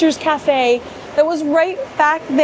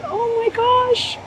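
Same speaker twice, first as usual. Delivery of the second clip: delighted; 10 semitones higher, 3 dB quieter, slower than usual. Real, not acted. Delighted at the themed ramp.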